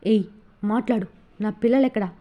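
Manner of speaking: a harsh demand with పిల్లలెక్కడా hit and falling; angry demand. A narrator's reading. Husband gripping wife's hair for the children, angry demand. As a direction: grab her and force the answer. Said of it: "Vasu కోపంగా".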